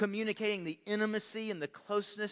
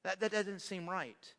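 quiet complaint; 6 dB quieter than usual. Retold or imitated. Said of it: "I don't say this out loud".

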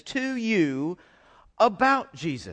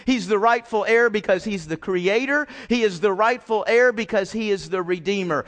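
proclaiming God's words; 3 dB louder than usual. Retold or imitated. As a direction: announce it like a royal decree. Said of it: "God says".

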